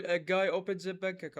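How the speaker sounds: slow, clear teacher model; slow model line. Shown as a demonstration. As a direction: say it slowly for the student to follow. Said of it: "من أنا أقول". (نطق بطيء وواضح كنموذج)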